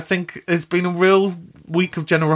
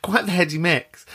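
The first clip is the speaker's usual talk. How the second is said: half laughing, half tearful; laughing through tears; 3 semitones higher than usual. Real, not acted. Host, moved by mum's message, laughing through tears. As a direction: laugh it out while still choked up. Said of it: "caught between laughing and crying".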